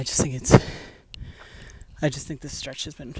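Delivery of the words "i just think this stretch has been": breathless, pushing words out; panting between words; out of breath. Real, not acted. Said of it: "sorry, I'm really out of breath".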